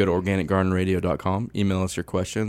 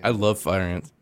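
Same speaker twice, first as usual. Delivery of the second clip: sarcastic; slower than usual. Acted. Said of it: "I'm being sarcastic".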